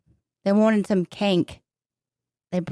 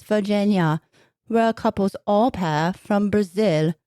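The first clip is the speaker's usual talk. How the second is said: put-on British accent; 3 semitones lower than usual. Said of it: "What happened to the British accent?".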